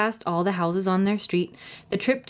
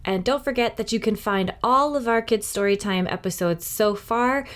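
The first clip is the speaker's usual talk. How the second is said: cheerful host outro; 2 semitones higher than usual. Real, not acted. Library host signs off to young listeners, cheerful.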